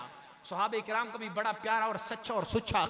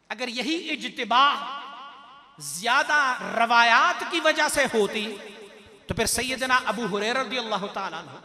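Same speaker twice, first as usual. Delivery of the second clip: rising, emphatic sermon delivery; emphatic preaching; 2 semitones higher, 6 dB louder than usual. Acted. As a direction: preach it forcefully, list the revered names with weight. Preaches with raised force. (पुरज़ोर तक़रीर का अंदाज़)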